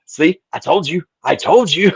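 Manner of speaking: vindicated I-told-you-so. Retold or imitated. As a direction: crow it like someone finally proven right. Telling wife she finally believes him.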